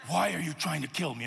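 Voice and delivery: put-on low, quiet deadpan as the baby; mock-grave, hushed questioning; suspicious baby's look voiced. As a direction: voice a baby's wary stare, low and soft. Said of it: "she'd give me this look like".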